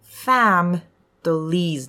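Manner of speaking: ファム said loud as one beat, then リーズ; ファム closed on m with no i; dropped middle vowel. Shown as a demonstration. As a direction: break it into strong ファム plus リーズ. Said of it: "ドロップしても".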